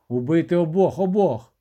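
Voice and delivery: desperate commander yelling to kill both; panicked shout. A narrator's reading. Командир у паніці кричить. (відчайдушний крик)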